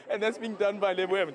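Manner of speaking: breathless after singing; puffing between words; out of breath. Real, not acted. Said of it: "Jeez, I'm out of breath".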